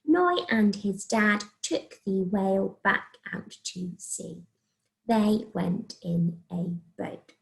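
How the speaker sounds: slow, word-by-word reading; careful read-through. Shown as a demonstration. Teacher checking two written sentences, read carefully. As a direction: read it back slowly, every word separate.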